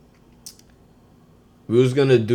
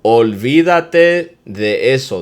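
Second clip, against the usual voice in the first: Olvídate de eso said slowly and a bit louder; slow demo; 3 semitones higher, 6 dB louder, slower than usual. Shown as a demonstration. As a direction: spell it out slowly for learners. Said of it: "That's a good one".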